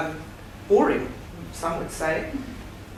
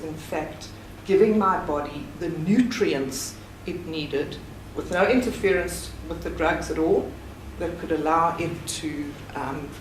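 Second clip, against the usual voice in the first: shaky, emotional voice; shaking voice. Real, not acted. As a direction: voice trembling with emotion. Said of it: "I don't know why my voice is shaking like it is".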